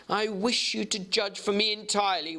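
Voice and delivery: Jekyll's voice. Acted.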